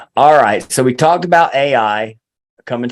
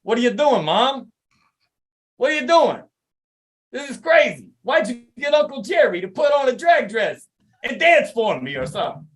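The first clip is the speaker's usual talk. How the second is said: mock horrified kid; 10 semitones higher than usual. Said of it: "He's like".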